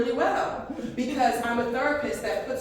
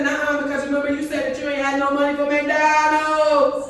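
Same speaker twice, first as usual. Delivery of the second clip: put-on laughing kid voice; 3 semitones higher, 5 dB louder than usual.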